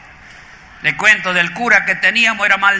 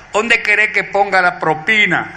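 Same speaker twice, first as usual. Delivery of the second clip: laughing punchline. Acted. Waiter's punchline answer.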